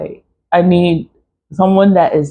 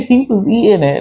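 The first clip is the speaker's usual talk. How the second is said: laughing; 6 semitones higher, faster than usual. Real, not acted. Laughs while repeating.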